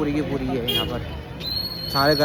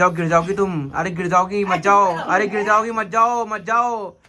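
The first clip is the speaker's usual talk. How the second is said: high, loud, repeated pleading; urgent warning; 5 semitones higher, 4 dB louder than usual. Real, not acted. Man warns climber she will fall, urgent high calls. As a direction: call out warnings, pitch climbing.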